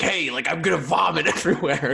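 hammed-up carefree blurt; mock announcement. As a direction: announce it with no reservations, playfully. Acts out unreserved kid announcing vomit.

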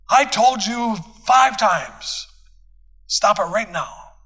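put-on a fed-up parent scolding a disruptive kid; yelling parent. Shown as a demonstration. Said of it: "many parents yell".

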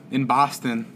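"Boston" said with an open "ah", Boston-style; imitated local vowel on "Boston"; Boston accent. Correcting himself to sound like the locals, Boston accent.

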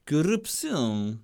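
slow heavy Russian Corrupção; Russian accent. Shown as a demonstration. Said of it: "queria dizer em sotaque russo".

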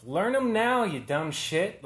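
loud, high scolding shout; exasperated pretend shout, slowing at the end; mock yell at younger self. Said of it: "yell at myself".

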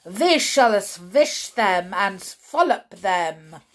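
lightly loud, slow witch boast; thundering witch. Acted. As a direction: proclaim the plan grandly. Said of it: "thundered the Grand High Witch".

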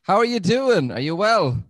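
stiff robot greeting. Shown as a demonstration. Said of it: "that's my robot accent".

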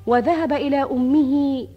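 measured storyteller narration; arabic grandma folk tale. Acted. Shahrazad opens tale formula.

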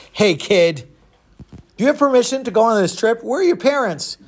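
lightly acted stern grown-up questioning a kid; suspicious ticket seller. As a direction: challenge the child, pitch climbing. Ticket seller challenges runaway boy.

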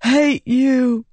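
put-on high, wounded boy's voice; a dying boy spitting his resentment; hurt boy. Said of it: "Grund whispered".

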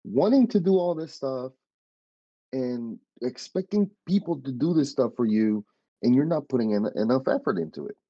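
mild re-enacted yell; retold yelling. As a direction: lay into him, retelling a telling-off. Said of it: "I started yelling at him".

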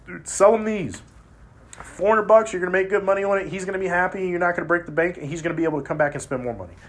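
selling the coworker on the pipes, eager; excited retold pitch. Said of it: "And I was like".

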